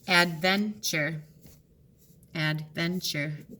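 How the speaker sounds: slow "Adventure" in parts; slow syllable split. Shown as a demonstration. Teacher to students, sounding out syllables. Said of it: "There we go".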